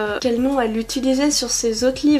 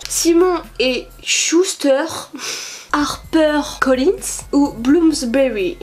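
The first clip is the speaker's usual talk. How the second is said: slow, put-on English accent on the publisher names; mock English accent; 3 semitones higher, slower than usual. YouTuber teasing her own English accent on publisher names. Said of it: "on adore mon accent".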